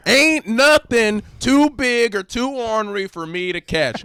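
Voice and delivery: slow, loud, high-pitched character voice; hammed-up boast. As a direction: draw the boast out big and high.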